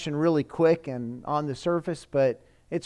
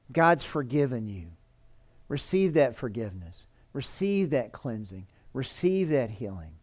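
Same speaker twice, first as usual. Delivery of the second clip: softer, gentle pastoral assurance; soft reassurance; 3 semitones lower, 4 dB quieter than usual. Acted. Pastor assuring a forgiven believer, softly and gently. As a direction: speak forgiveness quietly over them.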